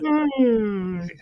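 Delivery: words stretched by a yawn. Real, not acted. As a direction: talk through a yawn. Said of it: "Sorry for yawning".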